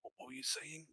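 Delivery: groggy whisper, barely awake; a hungover man mumbling softly; hungover villager. Acted. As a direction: croak it out with a hangover. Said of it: "got a hangover, so he's like".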